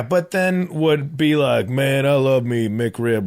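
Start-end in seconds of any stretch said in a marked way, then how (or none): 1.7-3.3 slow dopey drawl; lightly voiced meathead; dumb guy voice. Imitating meat-eater hypocrite.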